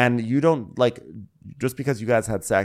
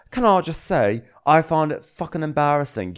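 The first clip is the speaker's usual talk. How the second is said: high, pushed mock rant; mock angry Tom; 6 semitones higher than usual. Host imitating Tom scolding Ashley, mock outrage. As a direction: sneer it like an indignant chef.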